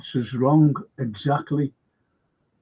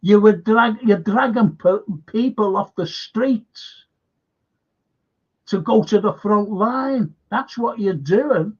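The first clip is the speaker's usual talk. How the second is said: mock angry rant; 5 semitones higher than usual. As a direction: throw the accusation like a politician laying into him. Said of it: "Vance who said".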